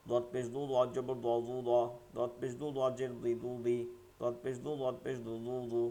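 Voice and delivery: দ, দি, দু chanted evenly with a thick Arabic dad; heavy dad drill. Shown as a demonstration. Teacher drills vowel combinations for the class, heavy dad drill. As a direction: drill দ দি দু on a level note, every consonant kept heavy. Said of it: "মোটাই থাকবে".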